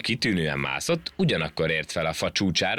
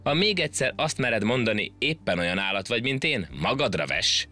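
monkey scolding; 4 semitones higher than usual. Acted.

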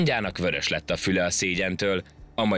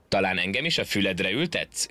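mocking. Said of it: "gúnyolódott a majom".

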